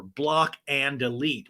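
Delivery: BLOCK, AND, DELETE each stretched out; emphatic slow command. Real, not acted. Host advising women to drop him, slow emphatic command. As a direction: lay down BLOCK AND DELETE slowly, word by word.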